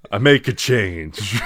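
slow amateur celebrity impression; Tim Allen. Friend reciting his assigned quote, slow impression. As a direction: stretch it out as the actor. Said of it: "sounded like Tim Allen".

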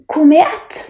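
high, hesitant questioning word; timid answer. A narrator's reading. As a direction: offer it unsurely, as a question. Benny answers the taunting boys timidly. (forsiktig, spørrende)

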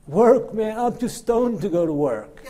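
loud, high imitation of a stoner; incredulous stoned kid. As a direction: blurt it out like a baffled stoner. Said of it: "looks at me with this weird look".

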